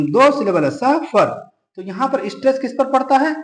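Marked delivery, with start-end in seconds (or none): 0.7-1.4 सफर with the opening स stressed; stress on first syllable. Shown as a demonstration. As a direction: lean on the first part of सफर. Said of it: "सह पे, पहले syllable पर". (सफर के पहले हिस्से पर ज़ोर)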